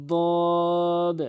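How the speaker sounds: দদ said heavy from the tongue's side edge against the gums; Arabic dad demo. Shown as a demonstration. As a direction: model the letter দদ with a full emphatic sound. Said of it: "জিহ্বার গোড়ার কিনারা".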